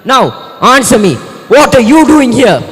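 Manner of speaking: slow, loud, booming demand; commanding demand. Acted. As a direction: demand it slowly like a god. Poseidon demands an answer.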